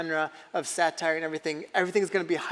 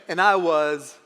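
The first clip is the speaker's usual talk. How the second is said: put-on Forrest Gump accent; 5 dB louder, slower than usual. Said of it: "Forrest would be like".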